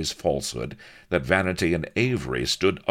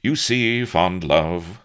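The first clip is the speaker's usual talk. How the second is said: smiling; 5 semitones higher, 7 dB louder, slower than usual. A narrator's reading. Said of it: "smiled Avery".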